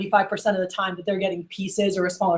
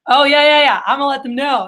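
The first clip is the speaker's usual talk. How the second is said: excited, louder burst of agreement; Mikey; 4 semitones higher, 3 dB louder than usual. Retold or imitated. Salesman hamming it up for the listening customer, excited. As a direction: eagerly play along on the phone. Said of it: "to get excited".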